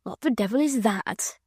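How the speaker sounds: bland. Acted. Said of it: "asked Sir Percy blandly".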